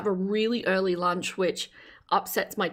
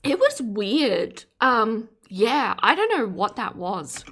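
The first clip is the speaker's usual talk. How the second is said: talking around a mouthful; words through a bite of food; mouth full; slower than usual. Real, not acted. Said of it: "I have food in my mouth".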